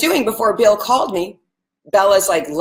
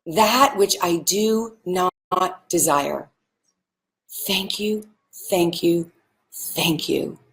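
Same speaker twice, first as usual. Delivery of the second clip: quiet, unhurried mantra, fading to softer on the thank yous; soft gratitude mantra; 3 semitones lower, slower than usual. Shown as a demonstration. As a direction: let each thank you sink in gently, slowing on the last line. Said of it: "And here's the mantra".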